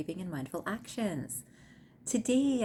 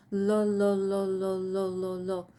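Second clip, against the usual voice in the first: crying; 6 dB louder, slower than usual. A narrator's reading. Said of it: "all they can hear is a man crying inside".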